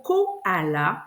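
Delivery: "koala" spaced out as ko-a-la; syllable by syllable. Shown as a demonstration. Teacher testing a word for the A sound, syllables separated. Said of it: "soit de le faire en syllabes".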